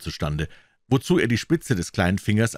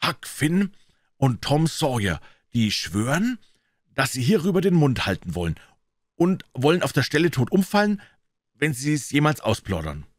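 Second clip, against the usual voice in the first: higher, deliberate reciting voice; oath recital; 7 semitones higher than usual. Acted. Boy reads out the secret oath, reciting in a raised voice.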